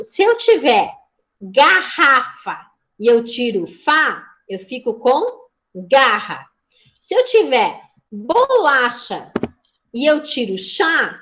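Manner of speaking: slow, deliberate teacher demo; slow classroom demo. Shown as a demonstration. Teacher showing syllable removal to the class, slow and deliberate. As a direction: lay out each syllable slowly for the pupils. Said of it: "por exemplo".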